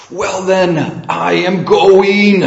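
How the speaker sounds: loud, high-pitched possessed cry; drawn-out, strained demonic shout; harsh possessed boy. Acted. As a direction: cry out harshly as the defeated devil. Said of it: "in a deep and harsh voice".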